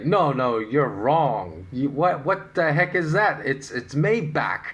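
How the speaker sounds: lightly acted disbelief, pitch lifting; mildly incredulous objection. Acquaintances rejecting the host's pronunciation, mock incredulous. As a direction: play the doubter insisting they're right. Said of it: "they, they will say".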